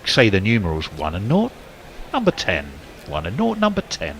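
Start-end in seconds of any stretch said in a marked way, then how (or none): 2.1-2.7 bingo caller. Shown as a demonstration. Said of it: "You'd have to say it in that tone of voice". 3.6-4.1 bingo caller. Shown as a demonstration. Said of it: "You'd have to say it in that tone of voice".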